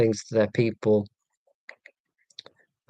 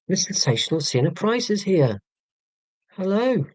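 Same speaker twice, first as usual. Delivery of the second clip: higher, announcer-style introduction; higher showman welcome; grand announcer; 8 semitones higher than usual. Acted. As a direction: present the guest like a showman.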